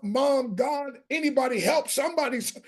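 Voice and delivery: retold cry for help. Six-year-old boy being beaten calls for mom, mildly acted crying out. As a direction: imitate a child calling out in distress. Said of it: "man, I'm crying out".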